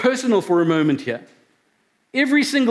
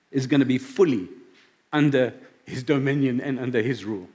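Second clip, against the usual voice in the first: low, softening voice, really moved; getting emotional; 4 semitones lower than usual. Real, not acted. Preacher confessing his own heart's dark corners, getting emotional. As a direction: hold back real emotion, voice sinking lower. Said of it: "I'm getting a bit emotional".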